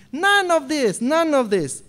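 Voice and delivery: insistent, half-acted rebuke; angry Elihu. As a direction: Elihu cutting them off, mildly angry. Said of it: "Elihu was so angry".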